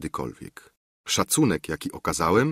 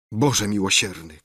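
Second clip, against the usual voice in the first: ordinary delivery, nothing marked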